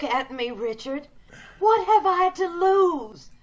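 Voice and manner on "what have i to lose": fierce resolve. Acted. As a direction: drive it home with grim passion. Gloria insists despite the odds.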